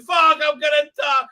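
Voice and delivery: high loud panicked yelp; mock panic. Galadriel balking at the boat, hammed-up yelp. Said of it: "Gladriel's like".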